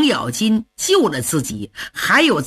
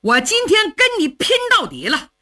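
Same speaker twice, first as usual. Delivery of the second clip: high, fast yell building to the vow; loud cry; 4 semitones higher than usual. Acted. Shan Xiongxin shouts after Luo Cheng, vowing to fight to the end. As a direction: roar out a fight to the death. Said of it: "大叫一声".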